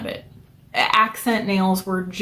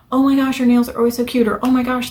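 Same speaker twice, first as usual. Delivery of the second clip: higher, quick gushing admiration; mock gushing friend; 4 semitones higher than usual. Friends on Facebook praising her nails, quick gushing voice. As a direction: play the excited friend begging a favour.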